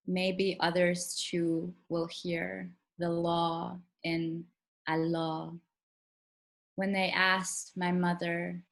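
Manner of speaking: measured poem recital with deliberate pauses; poetry reading. Acted. Poet reading own poem to a virtual audience, measured recital. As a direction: read it slowly and deliberately, phrase by phrase.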